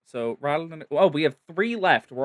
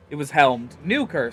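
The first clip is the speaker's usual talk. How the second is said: louder, clipped birdfolk speech; squawky bird-man; 4 dB louder than usual. Acted. Sezzle calming the frightened birdfolk, squawky and louder. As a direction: bark it out like an agitated bird creature. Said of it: "It was all loud squawking".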